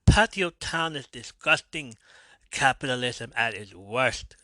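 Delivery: badly faked Russian accent; horrible Russian accent. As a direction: attempt a hammed-up Russian accent and miss. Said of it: "that's a horrible ass freaking Russian accent".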